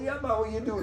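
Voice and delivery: lightly imitating his Rasta mate's greeting. Retelling how his mate Freddie greeted him, in a put-on Rasta voice. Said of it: "'Cause he was a Rasta".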